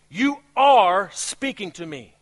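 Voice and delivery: "you are speaking to me" slow, each word weighed; slow emphatic prayer. Shown as a demonstration. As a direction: say it slowly as a heartfelt confession. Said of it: "read it with the desire".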